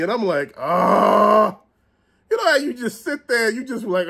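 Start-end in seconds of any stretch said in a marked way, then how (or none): 0.6-1.6 long, drawn-out exasperated "ahh". Retold or imitated. Hearing a friend's beef story, exasperated groan. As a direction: let out a long fed-up groan.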